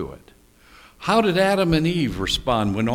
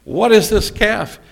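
higher, louder demand; Moses demanding; 9 semitones higher, 8 dB louder than usual. Retold or imitated. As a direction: confront him about the calf. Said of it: "Moses comes down the mountain and says to Aaron".

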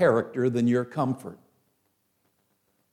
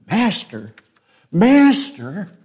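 panicked call; 6 semitones higher, 8 dB louder, slower than usual. Retold or imitated. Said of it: "They're panicking".

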